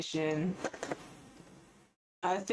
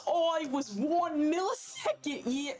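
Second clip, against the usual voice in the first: hammed-up fan; 4 semitones higher than usual. Role-playing an excited viewer.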